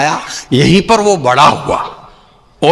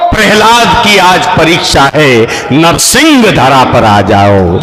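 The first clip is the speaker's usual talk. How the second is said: poem recital; 7 semitones higher than usual. Acted. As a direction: thunder it like a stage poet.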